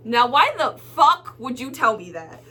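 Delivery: indignant with a punched curse; indignant retort. Retold or imitated. Customer to rude cashier, indignant retort. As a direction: demand an explanation, stressing the curse.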